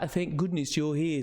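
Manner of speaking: brief sample of comic northern English; northern English dialect. Shown as a demonstration. Reader explaining the accent, sample northern English dialect. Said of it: "sort of dialect".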